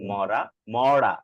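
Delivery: slow মরা, first with front র, then as curled-back মড়া; drawn-out pair, tongue forward then back; R contrast. Shown as a demonstration. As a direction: contrast the two মরা, tap then flap. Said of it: "এটা হচ্ছে এটার পার্থক্য".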